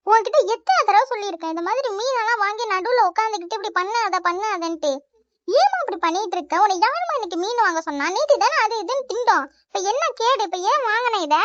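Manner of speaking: exasperated scolding of mother; ranting complaint. Acted. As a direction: rant about the fish with mild irritation. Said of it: "இதுக்குதான் இப்படி கத்தி தொலைஞ்சிட்டு இருக்கியா".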